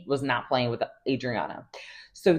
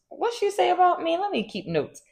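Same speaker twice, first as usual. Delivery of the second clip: mock paranoid. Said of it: "go home and be like".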